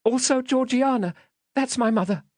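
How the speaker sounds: put-on very high, small boy voice; timid little high voice. A narrator's reading. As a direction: answer meekly as a scared child. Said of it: "I timidly explained".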